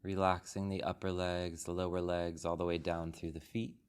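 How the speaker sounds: calm, unhurried meditation guide, long pauses between phrases; soothing body-scan delivery with room to breathe; guided meditation. Real, not acted. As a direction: guide the group gently into stillness, phrase by phrase. Leads a guided meditation after the bell.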